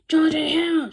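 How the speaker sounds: loud, high shout of two names. Acted. Principal calling the boys in the cafeteria, loud high shout. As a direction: shout them out across the room. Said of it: "shouted Mister Crow".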